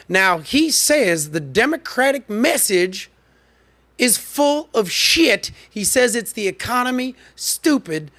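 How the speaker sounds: slow, high Cajun drawl, imitating Carville; Cajun accent impression. Host imitating the strategist's slow Cajun accent for viewers. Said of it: "He talks like this 'cause he's from Cajun country".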